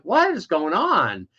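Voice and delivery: retold bewilderment. Nephew back from college reacting to family talk, retold bewilderment. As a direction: act out being baffled, pitch jumping up.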